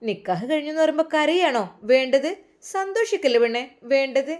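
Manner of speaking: mock-scolding a friend, lightly; cheeky ribbing; teasing. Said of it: "Shamna അവളെ കളിയാക്കി".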